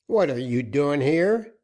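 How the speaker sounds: captain angrily confronting the woman who followed him; angry cry. Acted. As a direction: snap at her for being there. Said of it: "cried Captain Joaquin, in something of anger".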